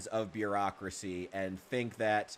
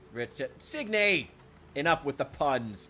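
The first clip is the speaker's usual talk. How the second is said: mock outrage; 3 semitones higher than usual. Real, not acted. Reacting to viewer pun.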